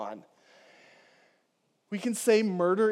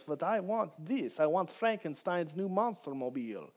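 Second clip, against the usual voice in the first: put-on Transylvanian accent; 4 dB quieter than usual. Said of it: "singing along in a Transylvanian accent".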